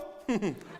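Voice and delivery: short mock-villain chuckle; menacing little laugh. Queen amused by her own threat, acted villain chuckle. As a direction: chuckle lightly after the threat. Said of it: "웃으면서".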